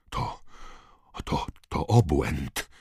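bezdźwięczny, jąkający się szept. Acted. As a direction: wyszepcz w szoku, powoli. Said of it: "wyszeptał Knot". (przerażony szept)

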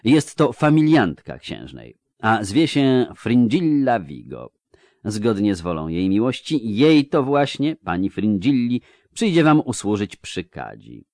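lightly voiced ceremonious court official; a hint of a stuffy chamberlain; courteous pompous chamberlain. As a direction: correct him with elaborate courtly politeness.

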